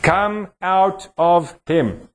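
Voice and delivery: slow, stern rebuke to a spirit; stern command. Shown as a demonstration. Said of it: "Jesus said to that man".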